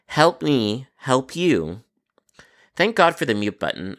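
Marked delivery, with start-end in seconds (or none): 0.1-1.8 slow and deliberate. Real, not acted. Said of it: "be specific".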